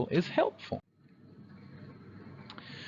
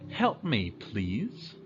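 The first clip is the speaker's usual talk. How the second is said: polite request; 4 dB quieter, much slower than usual. Shown as a demonstration.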